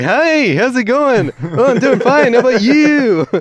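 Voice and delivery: high, loud nasal-free imitation of a singer; a singer's voice. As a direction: act out two identical singers. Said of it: "they both sound identical".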